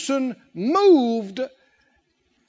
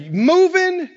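loud, high cry of moving; emphatic shout; 8 semitones higher, 6 dB louder than usual. Acted. Preacher urging the saints to get moving, shouting. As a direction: lift it into a ringing call.

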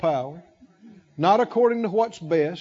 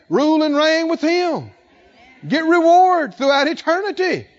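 louder, higher preaching that keeps building; full-force preaching; 5 semitones higher, 3 dB louder than usual. Real, not acted. Pastor firing up the congregation, loud rising preaching.

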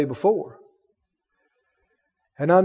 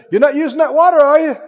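raised alarmed call; hollering; 7 semitones higher, 4 dB louder, faster than usual. Retold or imitated. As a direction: holler it across the room. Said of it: "my buddy hollered".

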